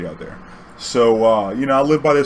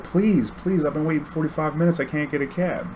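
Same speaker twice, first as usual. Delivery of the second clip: higher, softer imitation of an old lady's plea; pleading old lady; 4 semitones higher, 4 dB quieter than usual. Old lady begging the cabbie after waiting, imitated plea. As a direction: beg lightly in a raised old-lady voice. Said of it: "She's like".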